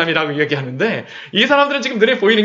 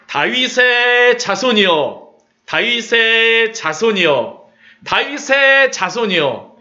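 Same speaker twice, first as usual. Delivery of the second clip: slow, drawn-out pleading call; crying out; 4 semitones higher, slower than usual. Acted. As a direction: cry out slowly to Jesus for mercy. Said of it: "소리를 지르면서 예수님을 따라와요". (느리게 길게 부르짖듯)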